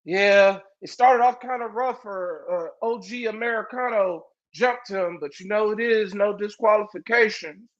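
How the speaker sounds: a hint of a timid, halting commentator; lightly voiced Rey. Mocking Rey calling a match for his friend, shy mumble. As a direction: mumble it like you're new on the mic. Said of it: "He's like".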